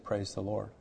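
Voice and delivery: very soft, barely voiced words; retold faint whisper. Husband retelling his waking wife's reply to daughter, faint whisper. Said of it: "a faint whisper".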